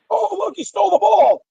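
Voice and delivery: sarcastic fake-surprised commentary; mock innocent voice. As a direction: play dumb, sing-song. Mocking a fake-innocent reaction.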